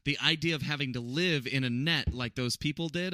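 ordinary talk

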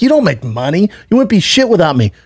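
scornful put-down, retold; belittling. Comedian to the trainer he employs, belittling. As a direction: imitate a boss cutting his employee down, pitch lifted. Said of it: "he's belittling him".

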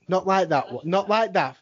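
not LIKE that, leaning on LIKE; stress on like. Shown as a demonstration. Telling his wife how to say it, stress on LIKE. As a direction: lean on the word like. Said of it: "wife, not like that".

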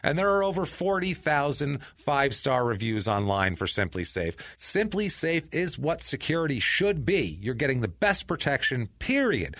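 emphatic podcast sponsor read; punchy, chatty ad pitch. Real, not acted. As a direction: sell the company with conviction. Host reads sponsor ad.

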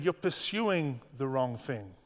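slow, deliberate and gentle; slowed right down, like a patient teacher; slow gentle correction. Shown as a demonstration. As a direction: lay each word down slowly and kindly. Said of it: "But he said".

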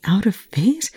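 unvoiced, stunned whisper; a nurse whispering in disbelief at his injuries; breathed whisper. A narrator's reading. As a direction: barely breathe the question. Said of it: "T J breathed".

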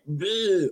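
drawn-out imitated ghost noise; mock spooky "bleh". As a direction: make a silly ghost noise. Imitating a ghost noise mid-quote.

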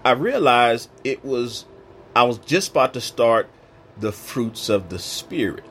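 holding back tears. Real, not acted. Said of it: "I'm trying not to get emotional here".

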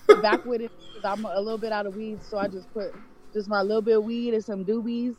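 talking around a joint; joint in mouth. Real, not acted. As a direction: speak while smoking a joint. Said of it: "is that a joint?".

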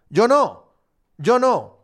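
a pouting outburst; mock-bitter protest. Real, not acted. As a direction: insist with comic envy. Lamenting he never saw it.

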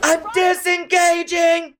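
very high, slow, haughty I'm disengaging; Meredith impression. Echoing Meredith's iconic exit line to fans. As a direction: drawl it grandly like a queen. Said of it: "wonderfully iconic line".

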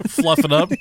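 laughing through the words; giggling it out. Real, not acted. Joking, laughing.

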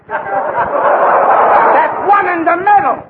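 drawn-out punchline; slow deadpan. Acted. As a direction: stretch it out slowly. Joke about good eye.

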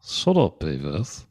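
lightly put-on English cartoon scolding; mock English telling-off; English-accented Butt-Head. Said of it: "to do an English accent".

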